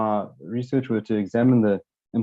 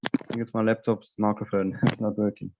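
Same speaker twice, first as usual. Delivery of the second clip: headphones used as mic; 3 dB quieter than usual. Real, not acted. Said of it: "I've got to speak through headphones".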